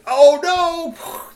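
high, loud, squealing oh no; cry of alarm. Acted. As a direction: yelp it like the knife just slipped. Character cries out as knife drops.

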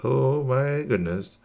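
slow, drawn-out amazement; storybook astonishment; amazed. Acted. Narrator voices a character's wonder.

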